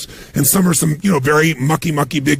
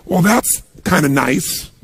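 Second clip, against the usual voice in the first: lukewarm; slower than usual. Shown as a demonstration.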